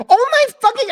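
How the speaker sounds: high-pitched imitation of a freak-out; mock fit. Friend having a fit at the news, hammed-up. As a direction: imitate him losing it, voice shooting up. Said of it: "he's having a fit".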